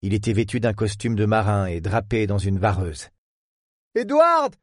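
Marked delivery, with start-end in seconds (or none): 3.9-4.5 high, relieved cry of a name; exclaiming. Acted. Lorraine crying out to Pierce on the boat. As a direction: burst out with his name. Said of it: "s'exclama mademoiselle Chapelle".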